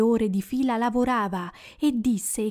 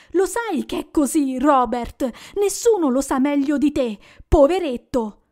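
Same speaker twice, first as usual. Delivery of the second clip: angry scorn; 3 semitones higher, 4 dB louder than usual. Acted. Wife rails against Scrooge.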